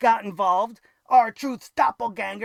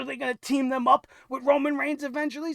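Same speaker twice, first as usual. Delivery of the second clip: usual speaking voice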